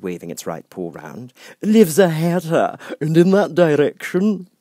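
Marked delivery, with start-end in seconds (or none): 1.6-4.5 grinning Cheshire Cat. Acted. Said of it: "the cat said".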